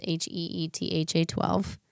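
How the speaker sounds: letters run together quickly; too quick spelling. Real, not acted. Giving out an Instagram name on a podcast, too quickly. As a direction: rattle off the spelling in one go. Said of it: "you gotta say it slower".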